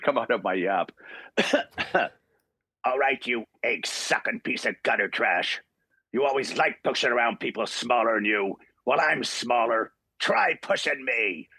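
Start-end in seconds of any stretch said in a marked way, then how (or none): 2.8-11.5 lightly voiced tough Wolverine, slowing at the end; Wolverine audition line. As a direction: deliver it like a scrappy fighter daring the bully. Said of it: "this is the first line".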